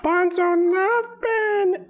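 very high, stretched-out gremlin voice; Bonzo. Retold or imitated. Monkey proposing to Ben, reject gremlin voice. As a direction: squeal it slowly as a lovesick little creature. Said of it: "He sounds like a reject gremlin".

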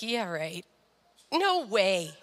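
low, dismissive scepticism; retold disbelief. Daughter hearing her dad's friend met Jesus, sceptical. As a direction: brush it off as impossible, pitched low.

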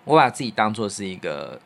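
ordinary delivery

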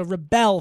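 "rebel" with stress on the second syllable, re-BEL, like the verb; corrected pronunciation. Shown as a demonstration. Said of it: "homework on pronunciation".

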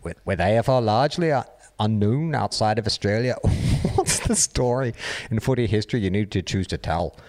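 mock Liverpudlian accent drifting into Irish; botched Liverpool accent. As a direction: badly fake a Liverpool accent that turns Irish. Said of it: "When did this Irish guy come in?".

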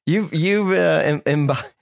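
lightly voiced high teasing scold; mock scolding. Host pretending to scold McEnroe about his daughter, lightly voiced high. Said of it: "make eye contact with him and be like".

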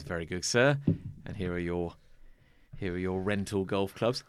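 lightly voiced snooty maitre d'; snooty waiter. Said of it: "snooty maitre d' behind, like, the counter goes".

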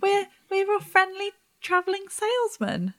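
salesman pitch. Acted. Player repeats salesman line.

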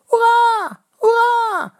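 high, loud triumphant cheer; cheering hurrah. A narrator's reading. Rival fans celebrating the goal, loud cheer. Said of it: "klinkt het achter".

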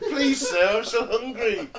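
plucky hopeful orphan pleading; lightly voiced hungry Cockney orphan. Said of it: "Cockney fucking orphan impression".

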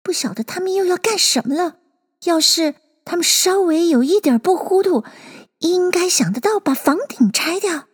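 lightly voiced character thinking aloud; Alice thinking. A narrator's reading. Alice wondering what they will do, musing. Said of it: "爱丽丝想到".

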